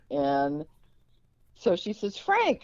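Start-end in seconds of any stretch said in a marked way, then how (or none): 2.2-2.6 high, loud call for attention; raised-pitch retold hail; imitated calling out. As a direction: sing out the name like a mother summoning someone. Mother calls Frank's attention.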